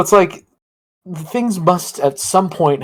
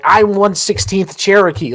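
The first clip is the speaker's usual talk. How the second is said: slow, slightly raised mock boast; South Park meme voice; 4 semitones higher, slower than usual. Comic mimicking a meme of Johnny Depp's claim, mock boast. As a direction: drag it out like a cartoon claim. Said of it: "like that one South Park meme".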